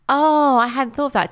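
sudden high, loud surprise; surprised. Real, not acted. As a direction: caught off guard by a new idea. Surprised realisation.

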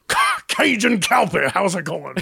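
stammered, slow Ca- Ca- Cajun Calpe; lightly voiced waiter stumbling over his name. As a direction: trip over the Cajun in your own name. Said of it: "tough time with that first Cajun part".

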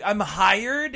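imitating a kid's high, loud scream; retold excited scream. Imitating young niece hearing she can work at the store, screamed. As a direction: shriek it like a thrilled little niece. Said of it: "Maya literally screamed".

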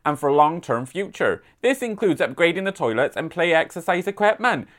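light mock West Country accent, reading the council news; a gentle West Country burr on a local newsletter; hint of a rural West Country accent. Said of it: "I've been doing my West Country accent all weekend, so we're gonna stick with that".

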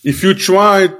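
talking around a wad of gum; chewing gum. Real, not acted. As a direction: speak with gum in your mouth. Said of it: "I have, like, gum in my mouth".

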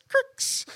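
high little crunch sound; high-pitched spoken sound effect; imitated cracking noise. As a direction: mimic something bending with a crick. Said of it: "it did one of those cricks".

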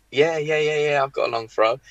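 over-eager yes. Retold or imitated. Young player eagerly telling a scout he has a long throw. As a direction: jump at the offer, keen to please. Eagerly agreeing to fake agent.

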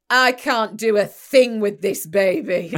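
loud, slow despairing cry; frazzled mum. Retold or imitated. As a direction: wail it like an exhausted mother. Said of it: "Like this".

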